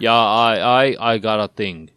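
lightly put-on Austrian action-star voice; hint of a mock Austrian accent; Arnold Schwarzenegger. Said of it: "Arnold Schwarzenegger in for a cameo".

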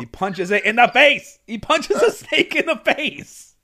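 high, loud, laughing yell; excited shout. Real, not acted. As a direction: shout it in delighted disbelief. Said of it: "excited retelling of a snake punch".

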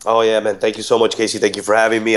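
congested, sick-sounding voice. Real, not acted. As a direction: talk through a head cold. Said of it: "I sound like a, a sick robot".

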